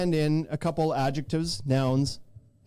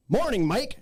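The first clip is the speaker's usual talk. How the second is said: delivery guy greeting; 6 semitones higher than usual. Acted. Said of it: "that's actually pretty good".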